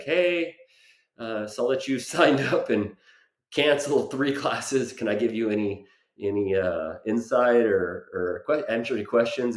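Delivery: friendly high-voiced coach checking in; a light upbeat owner's voice, pitched well up; gym owner's text. Gym owner texting about the cancelled classes, upbeat and high. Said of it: "He's like".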